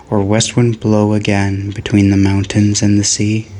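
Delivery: solemn, stately recital; measured poetic cadence; poem reading. Acted. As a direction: call out each Gondor like a longing hail.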